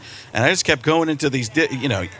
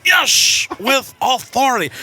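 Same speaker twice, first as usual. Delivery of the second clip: emphatic yes; 8 semitones higher, slower than usual. Retold or imitated. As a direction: say it with authority.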